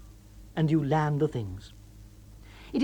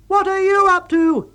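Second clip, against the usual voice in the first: high, loud indignant throw-back; loud, high snapping retort; angry retort; 8 dB louder than usual. A narrator's reading. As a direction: fling the question right back. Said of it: "he retorts".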